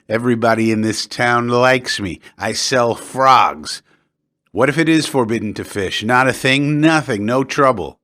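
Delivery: a hint of a boastful tipsy local; Peduzzi boasting.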